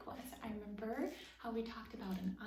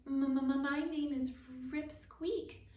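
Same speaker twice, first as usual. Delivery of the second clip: stuttering start, then slow and higher; stammering; 5 semitones higher, 6 dB louder, slower than usual. A narrator's reading. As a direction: push the name out through a nervous stammer. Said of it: "Rip stammered".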